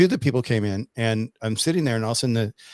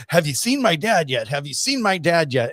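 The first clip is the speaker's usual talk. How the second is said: eager dad; 5 semitones higher than usual. Retold or imitated. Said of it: "and he goes".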